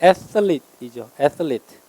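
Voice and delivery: "athlete" stressed on the first syllable with a th sound; front stress, TH. Shown as a demonstration. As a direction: say "athlete" as "ATH-lete", tongue between the teeth. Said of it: "강세가 앞에 있어서 티에이치가". ("athlete" 앞에 강세, th는 번데기 발음)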